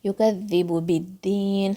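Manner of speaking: slow whispered یکذب بالدین; whispered recitation. Shown as a demonstration. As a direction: whisper یکذب بالدین slowly, stressing the shadda. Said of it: "با کو light رکھنا ہے".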